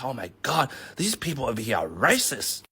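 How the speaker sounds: whisper-worried to a friend; scared migrant. Retold or imitated. Scared new migrant telling another migrant, hushed fearful. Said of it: "gets a bit scared".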